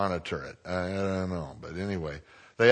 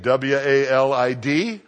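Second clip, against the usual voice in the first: letters spelled out slowly; slow spelling; 2 semitones higher, 5 dB louder, slower than usual. Shown as a demonstration. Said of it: "spells the name for listeners".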